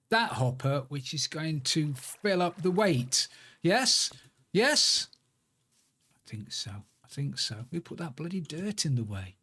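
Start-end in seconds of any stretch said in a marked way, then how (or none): 3.6-4.1 a hopeful high Yes?; asking high and eager. Real, not acted. Gamer checking his build works, hopeful high query. 4.5-5.1 Yes? pitched even higher and eager; higher hopeful yes?. Real, not acted. Gamer willing his contraption to work, even higher Yes?.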